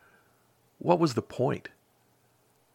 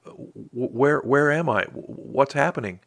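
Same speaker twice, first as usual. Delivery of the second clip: frightened stammer; 4 semitones higher than usual. Acted. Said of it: "took a deep breath".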